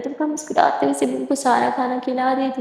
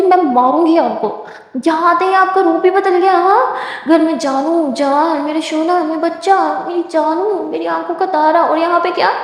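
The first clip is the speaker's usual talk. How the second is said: mock complaint; 5 semitones higher than usual. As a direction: playfully accuse her of changing. Girlfriend complains teasingly. (शिकायत भरे नखरे के साथ ऊँची आवाज़ में)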